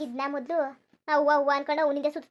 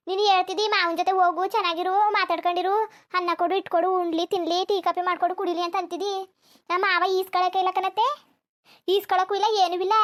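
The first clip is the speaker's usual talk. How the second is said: loud complaining; 5 dB louder than usual. Acted. Daughter-in-law complains to aunt.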